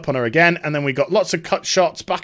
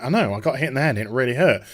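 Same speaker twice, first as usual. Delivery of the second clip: lower, offhand mock reply; imitated dismissive daughter; 4 semitones lower, 3 dB quieter, faster than usual. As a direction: brush dad off in a lower voice. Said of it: "And she's like".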